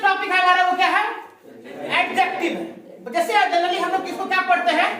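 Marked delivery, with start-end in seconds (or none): 2.0-3.1 एडजेक्टिव with the d muffled, slow. Shown as a demonstration. Teacher modelling एडजेक्टिव for class, d muffled. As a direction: say एडजेक्टिव slowly, d nearly silent. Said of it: "डी को ना क्या करना है? मफल्ड करके बोलना है".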